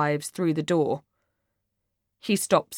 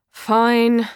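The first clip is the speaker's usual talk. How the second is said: put-on loud drunk; 3 semitones higher, 6 dB louder than usual. Drunk Alice blurts at Mark.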